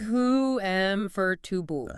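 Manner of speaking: slow "Ku hem for dubu", syllable missing; common mistake. Shown as a demonstration. Host repeating the error, slow mispronunciation. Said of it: "avoid the common mistake".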